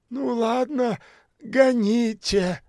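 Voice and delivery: высоко, медленно, нехотя; уступи нехотя; хмуро. A narrator's reading. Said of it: "хмуро сказала та". (бомжиха нехотя поправляется, хмуро)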